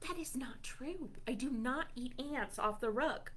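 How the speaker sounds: soft whisper of denial; whispered aside. Pretend. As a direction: lean in and whisper it to the kids.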